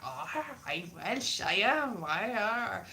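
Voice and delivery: slow, mock Welsh accent. Comic mimicking a television Welshman, mock Welsh. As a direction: put on a silly Welsh accent. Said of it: "the accents were pretty ta-, terrible accents".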